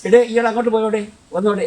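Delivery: കൊല്ലം ശൈലിയിൽ ഉറക്കെ വിളിക്കുക; Kollam calling style. Shown as a demonstration. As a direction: call out like a Kollam local. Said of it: "ഇടയെന്നൊരു വിളിയുണ്ട് കൊല്ലംകാർക്ക്".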